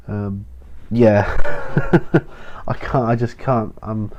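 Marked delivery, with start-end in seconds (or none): 1.3-2.6 short unvoiced chuckle at himself; a quick rueful laugh under the breath; breathy laugh. Real, not acted. Vlogger laughing at his own yawning problem, a breathy chuckle.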